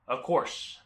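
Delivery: lightly put-on Maine accent. Seller accepting a compliment, light Maine accent. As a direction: answer with a hint of Mainer. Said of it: "drop the accent here real quick".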